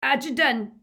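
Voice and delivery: "Accident" high, loud and thick-tongued; "Accident" with mushy, stuffed-up consonants; mouth full of blood. A narrator's reading. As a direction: blurt "Accident" through a bleeding mouth. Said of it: "his mouth was full of blood".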